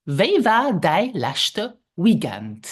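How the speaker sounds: slow "Wie war dein letzte Weekend?" stretched out; slow repeat. Shown as a demonstration. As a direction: lead the repetition slowly. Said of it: "Let's repeat".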